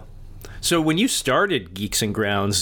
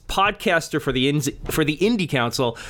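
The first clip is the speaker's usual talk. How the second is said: rattling off a list without pausing; all in one breath. Real, not acted. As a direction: push through the whole list on a single breath. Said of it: "let's see if I can do this in one breath".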